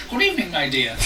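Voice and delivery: a touch of old lady, gently put on; old woman voice. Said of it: "Sorry for the old woman voice".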